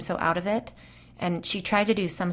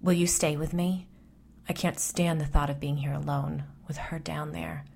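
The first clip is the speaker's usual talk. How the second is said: pleading, fading into a whisper; frightened friend begging not to be alone. Acted. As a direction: beg her not to leave, scared. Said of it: "Then to me she pleaded".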